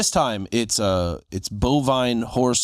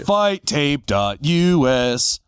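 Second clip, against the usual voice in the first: slow plug; much slower than usual. Acted. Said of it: "tell them where they can find you".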